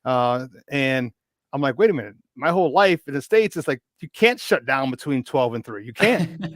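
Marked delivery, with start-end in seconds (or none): 1.8-6.4 higher and louder disbelief; can't believe it, building louder; incredulous. Retold or imitated. Young American shocked that shops close at midday, in louder, higher disbelief. Shocked by Italian siesta hours.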